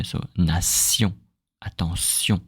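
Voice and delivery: "nation, attention" with an S sound, not SH; French nation. Shown as a demonstration. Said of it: "We say S".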